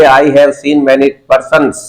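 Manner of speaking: very slow, spaced words; slow model sentence. Shown as a demonstration. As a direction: dictate it slowly for repetition. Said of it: "बोलिए".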